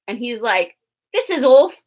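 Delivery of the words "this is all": angry realization. Retold or imitated. Jughead's realization, voiced angrily.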